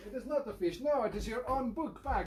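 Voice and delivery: put-on Italian accent. Italian-accented host thanking a guest for a present, playful Italian accent. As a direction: speak English with a theatrical Italian accent.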